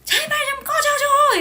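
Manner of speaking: slow, high furious yell; angry shout. Retold or imitated. Angry idol screaming at the ghost to leave. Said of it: "제가 너무 화가 나서".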